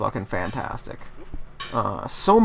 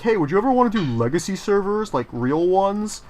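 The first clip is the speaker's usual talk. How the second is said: mock fan request; 2 semitones higher than usual. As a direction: ham up a fan begging for real servers. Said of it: "people were like".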